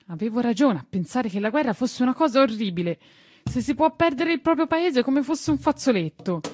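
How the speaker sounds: put-on high boy's voice rising in dismay; a child realizing war is horrible; young boy Tistù. Tistù answering the gardener, high dismayed boy voice.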